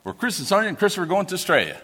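fast, lightly broad Australian intro; Australian accent. Shown as a demonstration. Father showing off his Aussie speech, quick Australian accent. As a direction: rattle off the names in an Aussie twang. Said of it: "I'm gonna speak the Australian".

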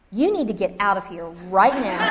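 mock order through laughter; laughing while ordering. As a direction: giggle as you throw him out. Kicking husband out, laughing.

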